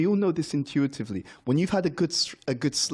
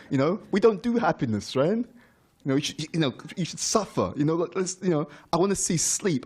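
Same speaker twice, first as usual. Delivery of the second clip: mock complaining devotee; 3 semitones higher than usual. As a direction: play the grumbling devotee, tongue in cheek. Imitating fellow devotees' mock complaint.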